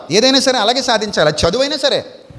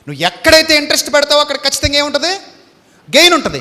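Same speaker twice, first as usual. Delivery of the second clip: louder and higher, proclaiming the promise of gain; ringing preacher's declaration; preaching; 6 semitones higher, 6 dB louder than usual. Acted. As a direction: call it out to the hall, lifted and loud. Preaching the maxim.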